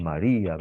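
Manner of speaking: "María" with most force on the í; stress on the I. Shown as a demonstration. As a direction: lean on the í in "María". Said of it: "la I es la que tiene más fuerza".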